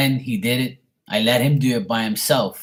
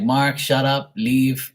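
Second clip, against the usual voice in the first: mildly exasperated scolding, a little higher; scolding mother; 4 semitones higher, 4 dB louder, much slower than usual. Retold or imitated. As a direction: cut him off like a fed-up mother. Mother cuts off the argument, retold.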